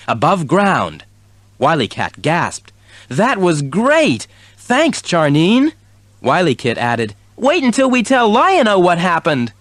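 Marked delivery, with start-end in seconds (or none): 3.1-5.7 kitten voice. A narrator's reading. 7.4-9.5 kitten voice. A narrator's reading.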